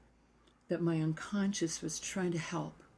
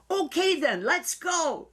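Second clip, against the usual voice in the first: much higher and louder, an eager go-ahead; Trudy's brisk reply; 11 semitones higher, 7 dB louder, slower than usual. Retold or imitated. Voicing the teacher jumping straight into the interview, high and loud. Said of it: "like this".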